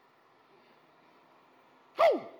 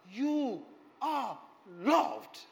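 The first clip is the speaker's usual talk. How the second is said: much higher, louder and slow, a full preacher's shout; preaching shout; 10 semitones higher, 10 dB louder, much slower than usual. Real, not acted. Preacher to the congregation, a slow, full shout. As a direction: thunder it out to the whole church.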